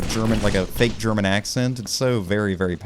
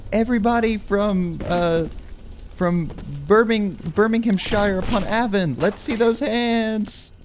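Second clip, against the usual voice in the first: high, drawn-out mock stadium call; concert hype; 13 semitones higher, slower than usual. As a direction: rouse an arena, hamming up each place name. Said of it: "what they do at, like, concerts".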